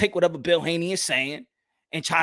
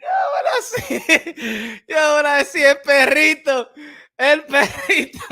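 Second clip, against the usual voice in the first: hyped shout-out; 10 semitones higher, 5 dB louder than usual. Real, not acted. Hyped reaction to the track.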